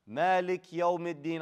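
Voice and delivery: "Malik yawmiddin" with bare k running into y; missing kasra. Shown as a demonstration. Teacher imitates student's mistake, kasra missing. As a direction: drop the vowel after "Malik", slowly. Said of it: "You said malik yawmi".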